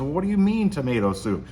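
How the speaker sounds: playing a wife hurt that her soup isn't appreciated; mock upset wife. Wife defends her tomato soup to her husband, mock upset. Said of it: "finally she gets upset".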